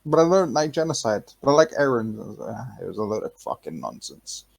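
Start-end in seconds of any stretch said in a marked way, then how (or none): 0.0-2.1 high, whiny mock of a clueless kid. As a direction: send up a dumb kid, starting high. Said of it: "The first time he was like".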